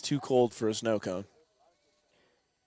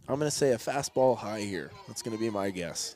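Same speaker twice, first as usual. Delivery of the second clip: hand over mouth; 5 semitones lower, 5 dB quieter than usual. Real, not acted. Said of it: "say it kinda low with my hand over my mouth".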